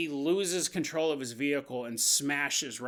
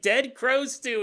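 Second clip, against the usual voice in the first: wife voice; 8 semitones higher, 5 dB louder than usual. Retold or imitated.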